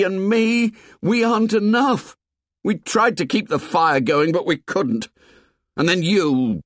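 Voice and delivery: put-on high, strained, raging boy voice; Ralph, voice cracking. A narrator's reading. Ralph yells at the painted tribe, voice cracking. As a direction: let the voice crack with rage. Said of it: "His voice cracked".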